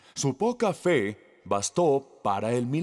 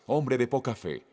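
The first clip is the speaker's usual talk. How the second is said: affectionate. Retold or imitated. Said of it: "como un término de afecto".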